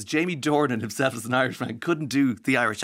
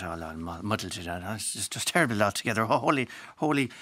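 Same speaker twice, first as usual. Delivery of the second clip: mumbled mock-Kerry lilt; muddled Kerry accent. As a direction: parody a badly coached Kerry accent, words running together. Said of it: "lilting musical thing".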